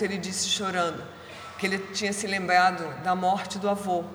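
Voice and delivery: ordinary delivery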